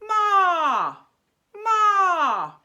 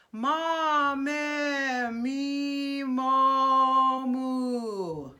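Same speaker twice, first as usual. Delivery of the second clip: sustained vowel drill; 3 dB louder, much slower than usual. Shown as a demonstration. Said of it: "play around with these vowels".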